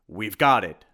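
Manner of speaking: loud, emphatic triumph; triumphant. A narrator's reading. Simon picks up the rib of Dracula, triumphant. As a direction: punch it out like a victory. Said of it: "said Simon triumphantly".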